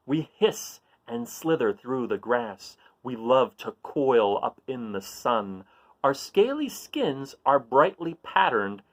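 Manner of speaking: put-on slow, sing-song riddle reading for kids; reading riddle aloud. Reading a riddle to young listeners, slow and playful. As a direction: read it slowly to the children, savouring each clue. Reads snake riddle to children.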